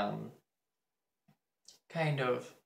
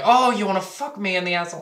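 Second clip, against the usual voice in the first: higher, fast taunting mimicry; mock classmate; 6 semitones higher, 5 dB louder, much faster than usual. The classmate taunting her, a fast mock voice. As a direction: rattle it off like a smug jerk. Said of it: "And he was like".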